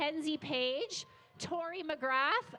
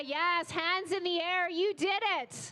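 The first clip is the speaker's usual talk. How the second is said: excited cheering; 4 semitones higher, 4 dB louder than usual. Real, not acted. Cheering a runner at finish.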